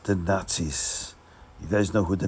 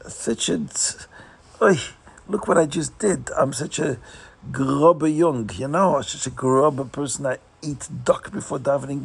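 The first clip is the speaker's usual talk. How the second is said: higher, sighing self-blame with an oy; guilty lament; 5 semitones higher than usual. Acted. Chassid berating himself on the way to pray, higher lament. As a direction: groan over your own foolishness. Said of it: "inside he feels so bad".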